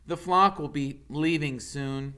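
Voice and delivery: hint of a young goose. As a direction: answer like a calm young bird. Bright Bill speaks.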